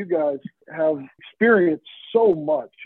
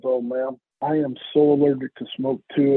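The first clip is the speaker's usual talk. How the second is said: sly salesman echo; 3 semitones lower than usual. Retold or imitated. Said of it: "he leans over and he goes".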